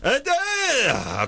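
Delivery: high called-out shout; calling out. Retold or imitated. Neighbor yelling for her dad. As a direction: call down the stairs. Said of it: "I'm yelling down the stairs".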